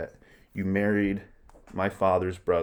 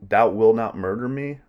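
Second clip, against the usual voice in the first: frightened queen; 3 semitones higher, 7 dB louder than usual. Acted. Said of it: "the queen's like".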